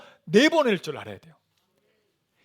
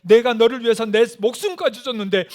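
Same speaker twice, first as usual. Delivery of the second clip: acted rebuke, building louder; forceful challenge; 3 semitones higher, 5 dB louder than usual. God challenging the one who counts love, forceful reproach. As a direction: press the question hard, with rising intensity.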